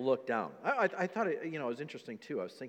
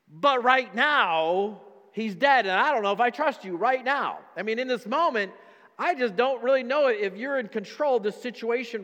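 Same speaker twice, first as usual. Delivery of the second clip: rising, louder, exasperated pleading; frustrated outburst; 4 semitones higher, 4 dB louder than usual. Acted. Believer venting at God about problems right now, louder and higher. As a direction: vent it at God, building.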